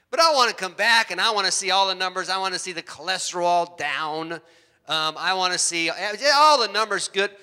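wife demanding his checkup numbers, lightly voiced insistence; mildly insistent wife. Wife pushing husband about his physical, mild insistence. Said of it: "she sends me emails".

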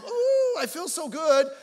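high, loud, swooning "ooh"; hammed-up gushing, starting high; mock wannabe pop singer. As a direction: imitate a cutie-pie worship singer. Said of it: "Taylor Swift wannabe singers".

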